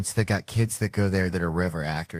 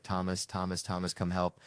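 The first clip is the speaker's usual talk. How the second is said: weak call for help; 8 dB quieter than usual. Retold or imitated. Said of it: "He's like".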